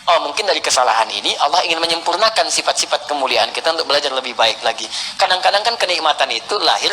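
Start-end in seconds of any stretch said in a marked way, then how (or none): 0.0-4.8 musing to oneself, a little lower; merenung. Acted. (nada merenung, agak rendah)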